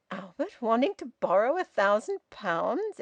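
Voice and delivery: astonished echo of the question, rising; astounded. Acted. Son echoing his father's news about Albert, astounded. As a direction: repeat it back in disbelief. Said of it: "Edwin repeated, astounded".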